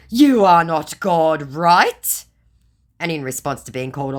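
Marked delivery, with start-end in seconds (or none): 0.1-2.2 high, slow, louder mock scammer; mocking scammer question. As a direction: put on the scammer's voice. Voicing scammer.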